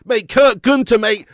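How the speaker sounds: screaming with delight at a super chat; overjoyed. Real, not acted. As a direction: lose it over a huge donation. Big super chat arrives.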